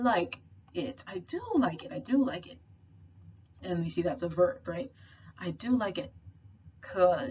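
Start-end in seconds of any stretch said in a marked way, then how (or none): 1.1-2.6 "do" picked out above the other words; emphatic do. Shown as a demonstration. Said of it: "sort of mirrors the emphatic do or does". 5.4-6.1 "do" lifted over the rest; emphatic do. Shown as a demonstration. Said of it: "sort of mirrors the emphatic do or does".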